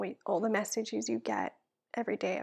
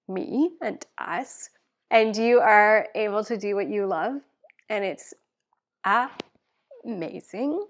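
louder, voice cracking with real tears; tearful thanks; 10 dB louder than usual. Real, not acted. Wife thanking supporters, tearful and cracking. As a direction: thank them while fighting back crying. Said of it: "I'm full out crying now".

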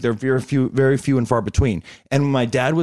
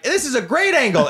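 much higher airy fan voice; imitating a gushing fan; 12 semitones higher than usual. Fan shooting the selfie from below, gushing high imitation. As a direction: gush like a short fan holding the phone. Short fans take chin selfie.

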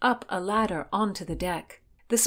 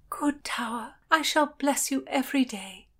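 tender gratitude; 7 semitones higher than usual. A narrator's reading. Heroine bids rescuer grateful farewell.

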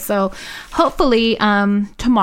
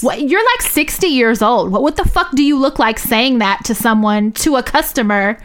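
outraged disbelief; 4 semitones higher than usual. Real, not acted. Ranting to a friend about the rude clerk, outraged disbelief. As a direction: pitch climbing high in outraged disbelief. Outraged rant, high far voice.

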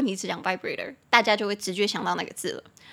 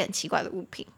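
unvoiced whisper; 4 semitones lower, 6 dB quieter, faster than usual. Real, not acted. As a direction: whisper the line like a secret. Whispered aside while reading.

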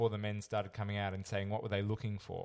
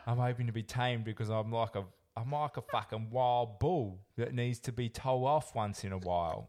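imitating Nathan; 4 dB louder than usual. Redoing the quote of Nathan, lightly voiced. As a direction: ham up the contestant's confession. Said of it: "I got it right at the end there".

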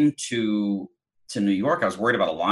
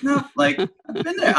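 mock insistent reply; slower than usual. Retelling reply to doubters.

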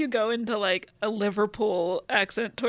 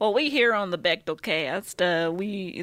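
attempted Southern accent; 2 semitones lower, slower than usual. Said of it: "my attempt at a Southern accent".

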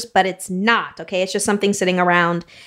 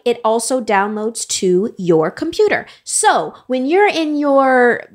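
game show host voice. Acted. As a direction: sell the prize like a TV host. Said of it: "that was her best game show host voice ever".

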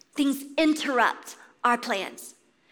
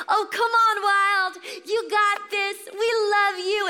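cheering; 7 semitones higher than usual. Retold or imitated. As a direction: call out to him like a proud parent at the pool. Parents cheering son in pool.

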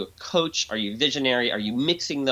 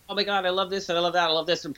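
quick, higher, gushing delight; gushing excitement; 5 semitones higher, faster than usual. Shown as a demonstration. To a difficult person, showing gushing appreciation. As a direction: pour out what you love. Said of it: "So if you say".

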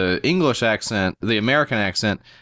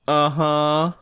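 higher, mock-sarcastic murmur of agreement; sarcastic uh-huh; 4 semitones higher than usual. Host mimicking how guest's agreement sounds to him, sarcastic. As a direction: imitate a doubtful, sarcastic uh-huh. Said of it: "It sounds so sarcastic to me".

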